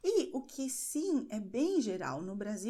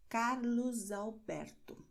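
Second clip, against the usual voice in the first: Carlos Alberto said slowly, S linked to the vowel; slow demo phrase; slower than usual. Shown as a demonstration. Teacher repeats the linking example, slowly. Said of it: "Veja a letra S no fim".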